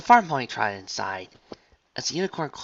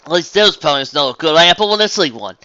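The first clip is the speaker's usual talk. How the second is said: loud, higher country grumble; southern farm pony; 6 semitones higher, 11 dB louder than usual. Acted. Farmer recalls a fiasco, defending her apples with twang.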